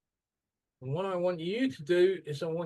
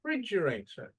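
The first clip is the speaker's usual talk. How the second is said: Refrigerator with FRIDGE as the strong part; Refrigerator, raised second syllable, then falling; stress on second syllable; 4 semitones higher than usual. Shown as a demonstration.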